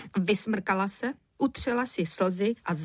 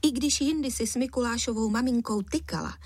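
ordinary delivery, nothing marked

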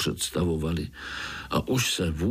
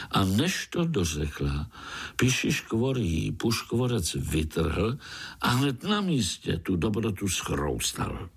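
usual speaking voice

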